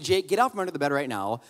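firm commands, last one hit hard; serious dad. Retold or imitated. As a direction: lay down the law to the kids. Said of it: "I said it in about that tone".

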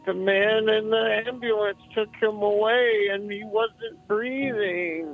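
put-on high, teary little kid voice; a small boy on the verge of tears; tearful child. Scared little boy telling the host, tearful and high.

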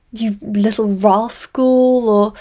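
slow, drawn-out teasing quote; playful brother voice. A narrator's reading. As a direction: stretch it out fondly. Mother voicing the brother.

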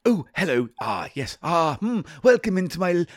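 lightly voiced old shopkeeper; a hint of an old sweet-shop man. Old shopkeeper greets the urchin, lightly voiced. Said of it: "I've forgotten how to do the voice".

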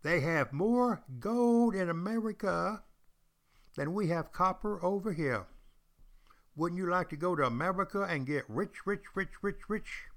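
recruiter's sales pitch. Pretend. English recruiter tempting a poor man to America, high enticing pitch. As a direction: dangle riches like a carnival barker.

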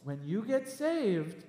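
gentle, slow imitation; Pastor Timothy. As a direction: speak slowly, like a gentle pastor. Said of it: "he's so gentle when he talks".

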